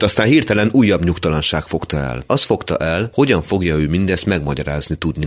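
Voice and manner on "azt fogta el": plain reading voice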